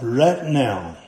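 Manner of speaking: right now as Deep South rett nah; a touch of Deep South accent on right now. Shown as a demonstration. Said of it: "like they say in the Deep South".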